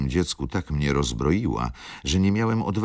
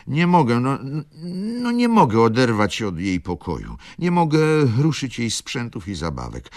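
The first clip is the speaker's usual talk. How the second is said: higher, louder tearful insistence; sighing demand; 10 semitones higher, 5 dB louder than usual. Acted. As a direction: demand it through sighs. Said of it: "mówiła wśród westchnień".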